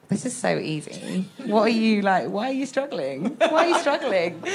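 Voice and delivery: laughing mock taunt, pitch climbing on the last question; gloating show-off. Child showing off to mum mid-workout, smug laughing taunt. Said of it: "I wanted to be like".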